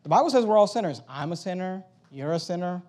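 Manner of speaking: calm and including yourself; gentle "I'm a sinner, you're a sinner" counting yourself in; inclusive. Shown as a demonstration. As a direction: say it as one sinner to another. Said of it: "Now notice how I said that".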